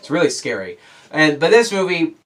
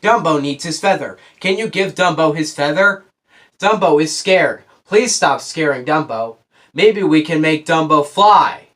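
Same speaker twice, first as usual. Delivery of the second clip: put-on slow, stilted child-actor line reading; mock wooden delivery, drawn out word by word; bad child actor. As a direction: imitate a girl who cannot act. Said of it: "She would talk like this the entire time".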